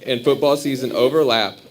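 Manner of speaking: chuckling through the words; laughing while reading it out. Real, not acted. Joking vow line, laughter.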